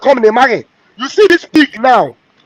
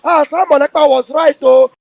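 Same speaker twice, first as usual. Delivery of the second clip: a touch of mocking, higher dismayed voice; mock regret; 4 semitones higher than usual. Speaker mocks doubters who finally concede Kanu was right. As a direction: lightly imitate the doubters finally admitting. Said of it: "that's when they realize that".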